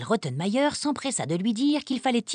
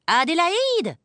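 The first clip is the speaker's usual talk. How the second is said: high, sharp call of the name; crying out; 8 semitones higher, 3 dB louder, slower than usual. A narrator's reading. Governess crying out at the girl in anger, high call. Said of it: "cria-t-elle bientôt".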